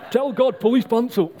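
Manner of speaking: teasing, barely holding back laughter; laughing. Real, not acted. Laughing at volunteer's outfit.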